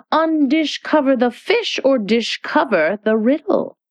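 a hint of a sing-song queen's riddle; lightly voiced White Queen reciting. White Queen recites her riddle to Alice, lightly sing-song. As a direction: recite the verse like a pleased, fussy queen.

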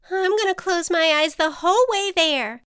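high, anxious storybook voice; mildly panicked resolve; nervous butterfly. A narrator's reading. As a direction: brace yourself, pitch up. Terrified butterfly before take-off.

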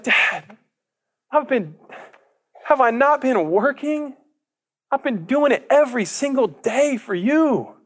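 put-on high, slow whining older son; whiny complaint. Older son complaining to his dad, high and whiny. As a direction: whine it up high, dragging each chore.

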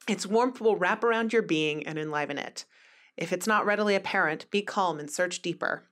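calm card reading; reading aloud. Acted. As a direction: read the card's meaning gently. Reads tarot card meaning.

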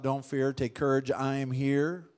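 softly voiced calm reassurance; soft reassuring. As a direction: speak it like a tender promise. Jesus speaks, soft reverent.

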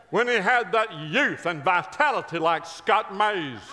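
loud, high preacher cadence with drawn pauses; exuberant preaching. Real, not acted. Preacher riffing to the congregation about Billy Graham, exuberant preaching. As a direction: build it up like a revival preacher.

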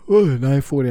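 words through a yawn; tired, mid-yawn. Real, not acted. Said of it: "I'm yawning".

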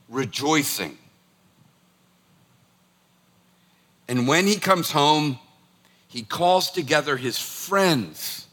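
measured, deliberate reading of the parable; scripture reading. Acted. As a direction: read it slowly, letting each phrase land. Reads parable aloud.

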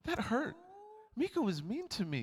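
high, hammed-up whining; mock whiny complaint. Pastor mocking a complaining member, high whine. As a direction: pretend to be the hurt churchgoer, whining. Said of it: "Don't go".

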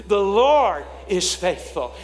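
loud, slow congregational declaration; lifted voice. Shown as a demonstration. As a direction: lift it up and stretch out LORD. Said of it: "let's lift our voice right now".

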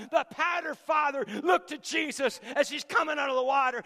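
fervent preacher shout; shouted preaching. Acted. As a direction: ring it out to the back row. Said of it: "preaching peak".

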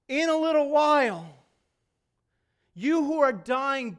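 loud, drawn-out preacher's declaration, easing down; booming proclamation. Acted. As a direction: proclaim it slowly to the whole congregation as Jesus. Preacher voices Jesus proclaiming to the dying.

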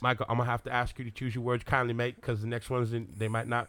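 put-on restrained British accent warning; Henry Cavill. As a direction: politely threaten like an Englishman. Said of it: "You do Henry Cavill".

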